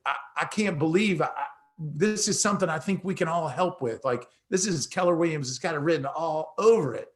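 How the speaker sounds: exuberant. Retold or imitated. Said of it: "with all my excitement and exuberance".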